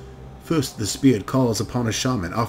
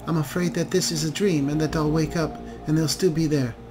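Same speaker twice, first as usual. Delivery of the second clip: put-on frightened young elf; 4 semitones higher than usual. Sleepless daughter tells her rescuer her fear, higher and hushed.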